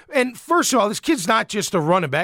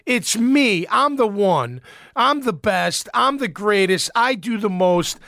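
mock arrogant player. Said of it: "a lot of guys get this air about 'em".

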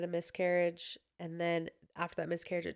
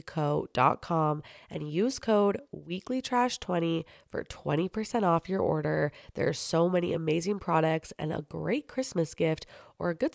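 upbeat, personal sponsor read; podcast ad read; 4 dB louder than usual. Real, not acted. Host endorsing a skincare sponsor to listeners, ad read. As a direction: sell it like a friendly endorsement.

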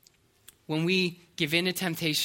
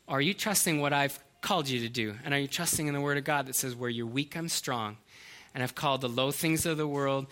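lower, softer, calm voice of God; 5 semitones lower, 4 dB quieter than usual. Retold or imitated. God calmly answering the doubting teenager, lower and soft. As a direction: answer gently from above. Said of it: "I remember him saying".

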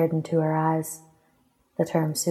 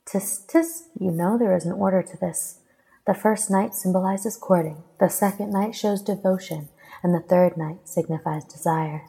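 lilting, slightly raised recitation; reciting; 2 semitones higher than usual. A narrator's reading. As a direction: recite the ritual's order in a lifted, measured lilt. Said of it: "she recited".

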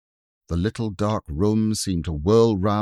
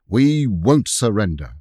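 excited defiance; 2 semitones higher, 4 dB louder than usual. Acted. Robert rallying during the siege.

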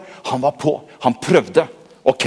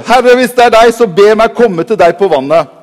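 bold Peter; 6 semitones higher, 6 dB louder than usual. Acted. Peter pleading loudly.

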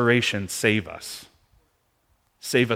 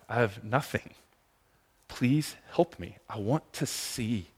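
quiet prayer; 4 dB quieter than usual. Retold or imitated. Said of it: "don't be afraid to be the one that says".

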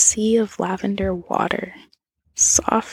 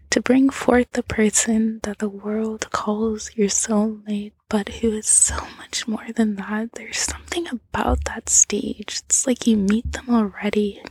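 ASMR whisper. A narrator's reading. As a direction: whisper the whole story close to the mic.

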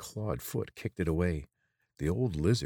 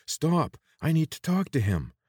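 much higher, louder shout; calling out; 10 semitones higher, 6 dB louder than usual. A narrator's reading. Corvin shouts after the lizards carrying the watcher, loud and high. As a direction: yell after them as they run.

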